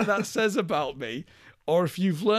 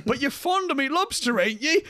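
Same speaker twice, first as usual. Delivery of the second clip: horrified, higher-pitched film impression; Willem Dafoe; 9 semitones higher than usual. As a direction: act wounded disbelief in a mock character voice. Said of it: "where Willem Dafoe's horrified".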